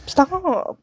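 high, loud final stop; shouted stop. Acted. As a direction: yell it to end it. Pushing away a handsy person.

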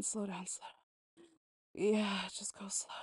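slow breathy whisper. Real, not acted. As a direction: hush it, slow and soft. Asks partner to slow down.

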